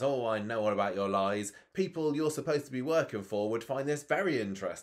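lightly dramatised accusation; mock confrontation. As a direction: act out calling someone's bluff. Acts out Alia confronting Griff.

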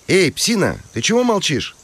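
calling out. A narrator's reading. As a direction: shout into the shed. Calling the silent dog.

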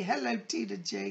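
hushed whisper to a viewer; whispered hello. Acted. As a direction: breathe the hello as if sharing a secret. Greeting a viewer in a hush.

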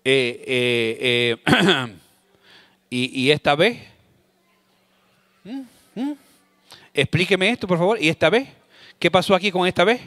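demanding parent picking at a report card; nagging parent. Acted. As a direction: drag it out like a parent grilling a kid. Preacher acts nagging parent.

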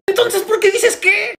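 loud, very high, drawn-out retort; exasperated shout. Acted. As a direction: blow up in comic exasperation, slowly. Acted squabble, escalated repeat.

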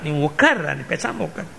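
low, very soft aside; acted under-the-breath command, dropping away; hushed restraining order. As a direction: quietly tell a hothead to stay put. Krishna quietly restrains angry Bhima.

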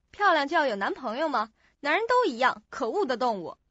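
mildly angry retort; a touch of indignation, rising then dropping; sudden anger. Acted. Woman answers a friend's boyfriend question, suddenly angry. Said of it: "你为什么要那么生气呢".

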